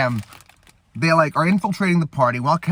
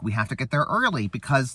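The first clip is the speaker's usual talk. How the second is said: softer, laid-back actor impression; quietly reason, in a light impression; Owen Wilson; 5 dB quieter than usual. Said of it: "this is my Owen Wilson".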